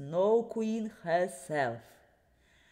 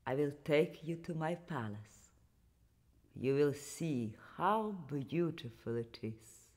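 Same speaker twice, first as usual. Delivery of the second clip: Snow Queen voice; 6 semitones lower, 7 dB quieter than usual. Acted. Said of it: "said the Snow Queen".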